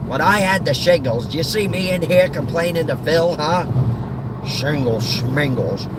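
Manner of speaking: dismissive, scornful grumbling about ailments; grumpy old grouch. Acted. Old man scoffing at gallstone complaints, scornful grumble. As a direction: grumble with contempt for others' pain.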